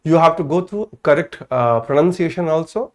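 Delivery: very slow, deliberate teacher emphasis; slow, stretched-out classroom emphasis. Shown as a demonstration. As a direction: drag each word to make the point. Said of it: "teacher stresses correct pronunciation".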